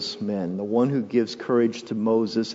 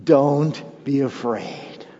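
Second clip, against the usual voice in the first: slow call and response; much slower than usual. Shown as a demonstration. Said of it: "Say it with me".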